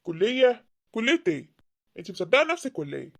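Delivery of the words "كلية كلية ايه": استنكار مندهش. Acted. الأب يستنكر الكلية.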